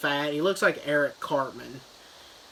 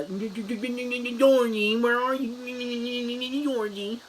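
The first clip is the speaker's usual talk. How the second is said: higher, slow stuttering call for Georgie; 8 semitones higher, much slower than usual. Retold or imitated. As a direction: drag out the stutter searching for a brother. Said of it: "He stutters".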